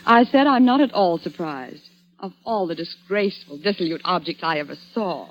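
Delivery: scornful scolding. Acted. Wife scolding drunk husband.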